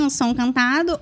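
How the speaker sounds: sung tone pushed through the nose; nasal singing voice, resonance in the nose. Shown as a demonstration. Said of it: "Faz uma demonstração pra gente do nasal".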